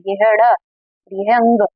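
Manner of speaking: अड़ and अंग said slowly and distinctly; slow down so अड़ and अंग are clearly told apart; teacher contrasting अड़ with अंग; careful contrast. Shown as a demonstration. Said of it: "ध्यान से देख लीजिए".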